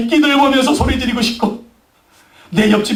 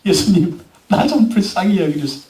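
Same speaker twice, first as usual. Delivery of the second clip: lower, subdued plea; pleading prayer; 4 semitones lower than usual. Shown as a demonstration. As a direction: ask humbly for pity. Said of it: "어떻게 해야 돼요?". (낮은 목소리로 애원하듯)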